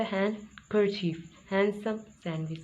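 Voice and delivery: हैंडकरचीफ, हैंडसम, सैंडविच all without D; word by word, drop D in हैंडकरचीफ, हैंडसम, सैंडविच; silent D. Shown as a demonstration. Teacher recaps the rule for learners, demonstrating silent D. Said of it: "इसी तरह से".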